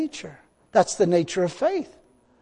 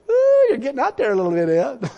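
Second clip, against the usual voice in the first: voice of the flesh; 6 semitones higher, 4 dB louder than usual. Retold or imitated. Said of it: "my flesh is saying".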